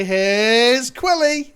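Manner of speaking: Here's Johnny quote. Acted. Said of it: "I smash through and I say".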